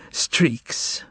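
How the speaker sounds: breathless unvoiced whisper of streaks, almost no voice; whispered through tears. Margarita to the master, whispering streaks through tears. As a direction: breathe streaks out on air alone. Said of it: "She whispered to him".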